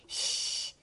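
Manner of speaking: soft unvoiced shh; whispered shush. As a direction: hush the puppy gently. Hushing dog, baby sleeping.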